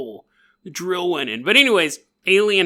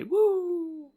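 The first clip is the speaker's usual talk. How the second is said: excited whoop; 13 semitones higher, 6 dB quieter than usual. Real, not acted. Box flies away.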